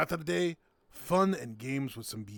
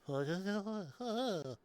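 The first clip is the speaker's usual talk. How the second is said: higher, drawn-out put-on laugh; mock drunken laugh; 6 semitones higher, 4 dB quieter than usual. Imagining everyone drunk on the floor, mock laughing. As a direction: laugh like someone drunk on the ground. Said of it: "we all be on the ground going".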